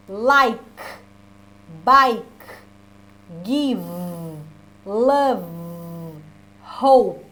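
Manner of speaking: Like, bike, give, love, hope said loud with the final consonant released and no vowel after it; model words. Shown as a demonstration. Teacher modelling words for the class, crisp final consonants. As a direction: drill each word, ending on the consonant. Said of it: "Essa aqui vai melhorar, olha".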